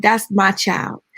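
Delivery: put-on slow, gentle "That's my child"; tender claim. Neighbor tells the mother, slow and tender. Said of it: "She said".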